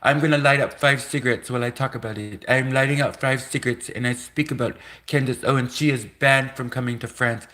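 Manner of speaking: high, fussy mock French accent; French official. French government refusing Candace Owens entry, in a mock French accent. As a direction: put on a hammed-up French accent, nattering in protest. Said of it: "the French government turns around and says".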